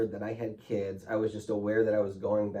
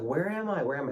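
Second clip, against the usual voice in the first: retold scream; 6 semitones higher than usual. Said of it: "And I'm screaming, I'm like".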